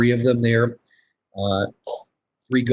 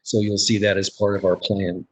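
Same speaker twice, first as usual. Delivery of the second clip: ordinary talk, nothing marked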